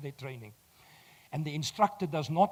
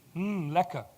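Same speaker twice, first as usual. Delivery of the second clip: thoughtful hum. Shown as a demonstration. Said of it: "I'm gonna teach you a trick".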